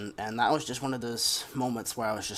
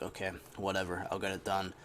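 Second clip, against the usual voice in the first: dismissive okay; 4 semitones lower, 6 dB quieter than usual. Retold or imitated. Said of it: "I wasn't really giving her attitude".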